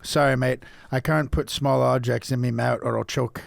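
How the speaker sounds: Scouse attempt. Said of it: "if you go to Liverpool".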